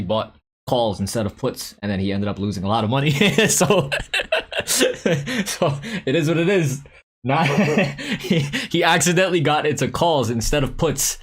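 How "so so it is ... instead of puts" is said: high, laugh breaking through the words; real laughing. Real, not acted. Streamer telling of a friend's losing trade, laughing through it. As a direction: crack up while telling it.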